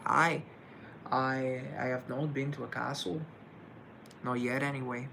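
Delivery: lightly put-on Scottish accent; attempted Scottish accent. Answering a viewer about castles, attempted Scottish accent. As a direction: try a rough Scottish accent. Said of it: "my best attempt at a Scottish accent".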